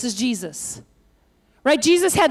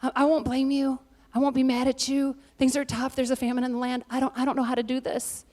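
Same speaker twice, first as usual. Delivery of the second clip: weary, defeated mother-in-law; 6 dB quieter than usual. Retold or imitated. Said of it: "looks at her daughter-in-laws and says".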